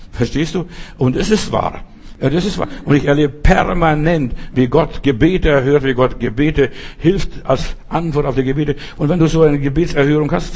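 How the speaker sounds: ordinary talk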